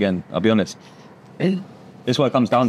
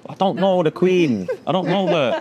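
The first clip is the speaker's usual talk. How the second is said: laughing retort; 5 semitones higher than usual. Retold or imitated. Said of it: "And I'm like".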